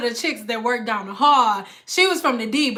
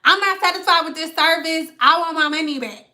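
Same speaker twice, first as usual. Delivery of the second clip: raised-pitch customer grievance; retold complaint; 5 semitones higher than usual. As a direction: imitate a customer insisting on a refund. Retold customer demanding a refund.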